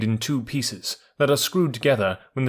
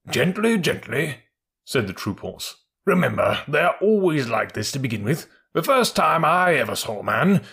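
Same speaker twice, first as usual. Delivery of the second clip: calm troop horse; 4 semitones higher than usual. Acted.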